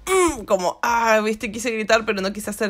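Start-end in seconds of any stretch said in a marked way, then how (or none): 0.1-0.4 short stifled hum of pain; mock held-back groan; suppressed groan. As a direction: swallow the yell into a hum. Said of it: "te golpeas y no querés gritar y haces como".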